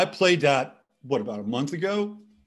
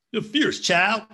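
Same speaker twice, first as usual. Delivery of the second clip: cooing at the dog; 9 semitones higher, 3 dB louder, slower than usual. Real, not acted. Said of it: "he's fierce".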